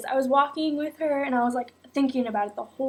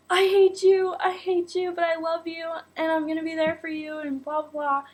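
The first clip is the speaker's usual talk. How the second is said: friend; 5 semitones higher than usual. Retold or imitated. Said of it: "she's like".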